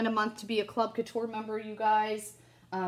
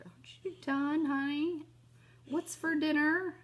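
higher, breathy mock husband; imitating husband; 8 semitones higher than usual. Imitating Jason asking about dinner, light mock. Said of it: "Jason's gonna come out ... and be like".

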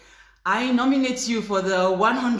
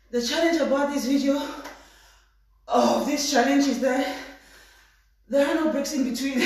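breathless after exercise; out of breath; 3 semitones higher than usual. Real, not acted. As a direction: still panting between words. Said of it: "I'm really out of breath".

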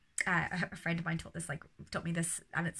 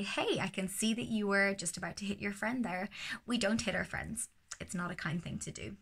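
calm and firm. Shown as a demonstration. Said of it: "in a really calm way".

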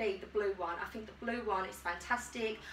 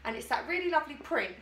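usual speaking voice

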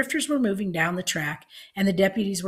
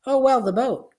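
airy dismissal; 7 semitones higher, 6 dB louder than usual. A narrator's reading. Grandma breezily brushes off theft.

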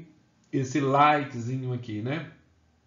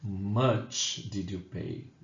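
slow model answer; 5 semitones lower, much slower than usual. Shown as a demonstration. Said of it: "eu vou dizer o quê?".

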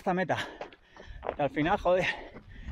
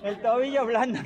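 slow, high whiny moan; imitating a crybaby runner; whiny complainer; 5 semitones higher, much slower than usual. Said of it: "cuanto más llorón".

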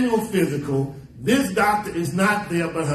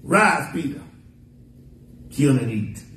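voice from heaven; 5 semitones lower than usual. Acted. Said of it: "this voice from heaven says".

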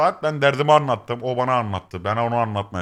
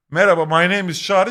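sample greeting; 7 semitones higher, 7 dB louder than usual. Shown as a demonstration. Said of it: "Merhaba mesela".

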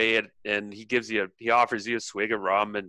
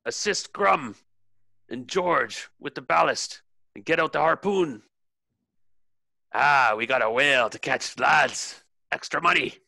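rousing captain's orders, pitched up; rally the crew with a raised voice; captain bellowing; 4 semitones higher than usual. Acted. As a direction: call out orders to the deck. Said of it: "the captain bellows you down".

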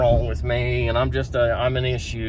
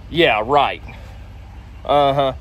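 sarcastic disbelief; slower than usual. Retold or imitated. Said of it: "To which she replies".

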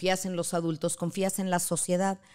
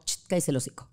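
rude son imitation; 3 semitones lower, faster than usual. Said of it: "dice mi hijo muy grosera".

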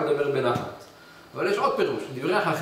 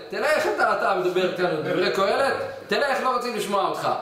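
mocking rejection; 5 semitones higher than usual. People reject him, laughing.

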